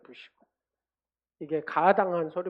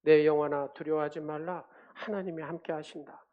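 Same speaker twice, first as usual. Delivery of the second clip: murmured self-encouragement, firm first word then easing; reciting to oneself. Shown as a demonstration. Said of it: "이 말씀을 갖다가 읊조리는 거예요".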